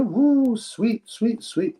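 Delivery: delighted woo, sweet sweet; excited whoop. Real, not acted. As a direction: cheer the news, pitch jumping up. Happy that the fight is confirmed.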